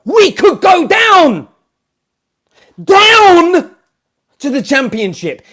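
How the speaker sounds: drawn-out anguished yell; despairing shout. Real, not acted. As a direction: cry it out like the world is ending. Fan panicking over relegation.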